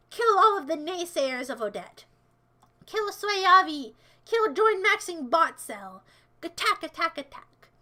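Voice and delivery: slow, loud villain orders; drawn-out evil commands; hammed-up evil general; mock villain commands. Commanding army.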